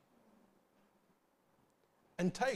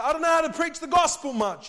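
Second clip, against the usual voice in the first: mock hesitant believer; 11 semitones higher, 9 dB louder than usual.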